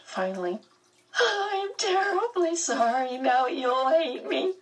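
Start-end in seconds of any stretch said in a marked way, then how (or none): 1.2-4.6 much higher, slow, tearful; sobbing. Acted. Meg sobbing as she apologizes to Calvin. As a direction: keep crying through the apology. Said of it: "she sobbed".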